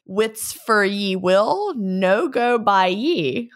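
slow, drawn-out Scots phrasing; Scots saying. Acted. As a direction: read it slowly with a Scottish lilt. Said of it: "which translates to".

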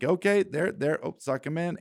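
a mock thrill of watching it work; replaying the play call with a burst of excitement; excited play call. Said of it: "where it was just like".

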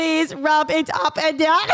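slow, flat-paced mock robot. Friend teasing her about phone sex, slow robot voice. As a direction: spell out each word like a machine. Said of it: "my robot voice".

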